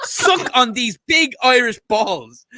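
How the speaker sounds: heated tirade building to a high shout; real anger boiling over; angry rant. Real, not acted. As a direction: rant at rival fans, erupting into a yell. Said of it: "I got, got really angry there".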